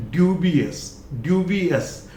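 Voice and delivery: ड्यूबियस with a light uhs at the end. Shown as a demonstration. Teacher models the next word, light ending. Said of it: "हल्का सा ए".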